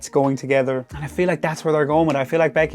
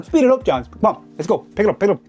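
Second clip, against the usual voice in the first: impatient fan urging; 6 semitones higher than usual. Real, not acted. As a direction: egg him on from the crowd.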